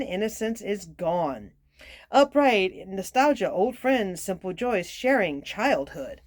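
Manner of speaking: clear, measured reading voice; story read aloud. Real, not acted. Card reader telling a Danish fairy tale, reading aloud. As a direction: read the tale out, settling at each ending.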